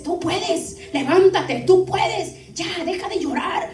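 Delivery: urging encouragement, pitched slightly up; rally someone who is crying to get up; exhortación enérgica. Acted. Dios anima con una orden. (ánimo enérgico y apremiante)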